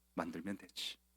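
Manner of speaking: low, very soft, sinister politician-style murmur.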